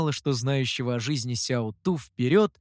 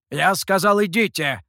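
insistent command; 4 semitones higher, 5 dB louder than usual. Acted. Mihou sends his friends away.

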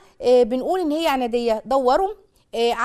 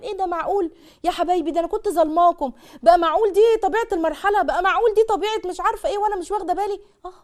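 high, amazed realization, playing the parent; a hint of a stunned mother; mock surprise; 5 semitones higher than usual. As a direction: gasp at the discovery in a raised voice.

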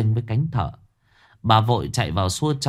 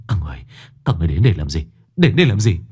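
panicked; 3 semitones lower, 3 dB louder, much faster than usual. Acted. Sinh panics at the visitors.

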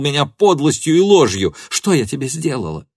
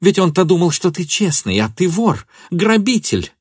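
high, loud outraged shouting; enraged tirade; 6 semitones higher, 4 dB louder than usual. A narrator's reading. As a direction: lash out at him, beside herself. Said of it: "крикнула Фенемора вне себя".

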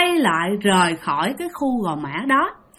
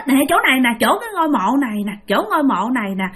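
put-on scared child; 4 semitones higher than usual. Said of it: "Thì ba nói".

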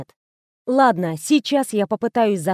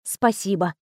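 sighed; 3 semitones lower, 5 dB quieter than usual. Acted. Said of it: "вздохнула я".

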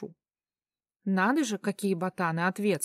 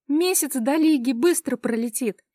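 excited; 4 semitones higher, 4 dB louder than usual. Acted. Still overjoyed after squealing.

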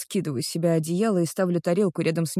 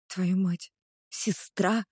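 softer, stunned question; stunned disbelief; 4 dB quieter, much slower than usual. Acted. Girl learning the other woman is his sister, soft stunned disbelief. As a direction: catch your breath at the news.

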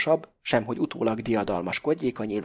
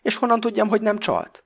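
furious accusation; 10 semitones higher, 4 dB louder than usual. A narrator's reading. Pakó furious at Krestopulosz.

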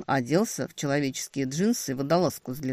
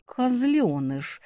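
slow, drawn-out hiss of an insult; a slow hissed «Козлёныш!» at him; 8 semitones higher, much slower than usual. A narrator's reading. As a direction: spit the word out slowly. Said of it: "прошипела я".

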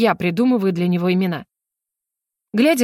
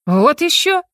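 higher, louder indignant retort; 6 semitones higher, 4 dB louder, slower than usual. A narrator's reading. Heroine and mage retort together, indignant. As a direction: scoff at the idea. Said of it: "возмущённо сказали мы".

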